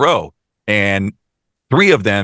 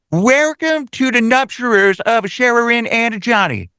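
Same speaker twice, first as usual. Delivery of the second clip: much higher, hammed-up broken Chinese accent on the welcome; sing-song broken Chinese accent, welcoming guests; mock broken Chinese accent; 13 semitones higher than usual. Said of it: "doing the broken Chinese accent".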